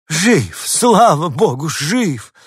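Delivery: loud, high burst of relief; lady overjoyed to find the lost dog alive; relieved joyful cry. A narrator's reading. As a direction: throw up your hands in relief. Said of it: "всплеснула руками дама".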